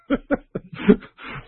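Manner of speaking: high breathy burst of laughter; real laugh; delighted laugh. Real, not acted. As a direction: crack up at the punchline. Laughing at the child's punchline.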